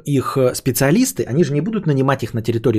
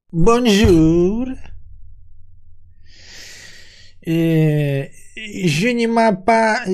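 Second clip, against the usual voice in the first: broken French waiter; 6 semitones higher, much slower than usual. Acted. Waiter tries French greeting.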